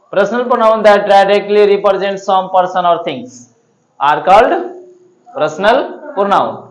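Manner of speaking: slow, drawn out reading; slow dictation. Shown as a demonstration. Teacher reading the definition slowly for the class to copy. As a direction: read it out slowly so they can copy. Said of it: "teacher reads definition slowly".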